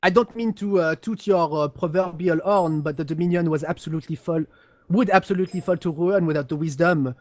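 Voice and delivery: put-on lightly accented haughty noble; a hint of an accent, smug and superior; mildly accented, pompous aristocrat; Cassian accent. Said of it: "do in an accent this evening".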